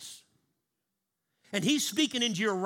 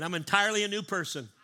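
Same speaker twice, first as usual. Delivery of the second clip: with feeling. Shown as a demonstration. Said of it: "Say it again with feeling".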